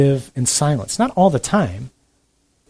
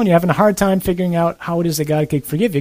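usual speaking voice

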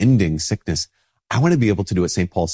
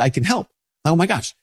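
delighted realization; 9 semitones higher than usual. Real, not acted. Sudden realization of opportunity.

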